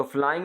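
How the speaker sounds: फ्लाइंग broken into flaa-ing, each part held; two vowel sounds. Shown as a demonstration. Teacher demonstrating a diphthong in flying, two vowel sounds. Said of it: "ए और ई की आवाज़ आती है".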